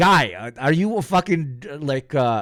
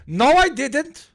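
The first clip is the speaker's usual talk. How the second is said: high, drawn-out rising denial; mock indignant denial; 12 semitones higher, 4 dB louder, slower than usual. Man cutting off the polite objector, high mock denial. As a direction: stonewall in a squeaky stretched-out voice.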